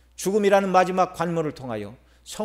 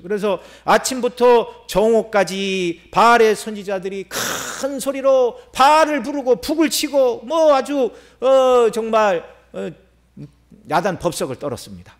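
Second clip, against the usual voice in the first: impassioned storytelling sermon; 5 semitones higher, 4 dB louder than usual. Real, not acted. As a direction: draw out the big words as you preach. Preaches at full force.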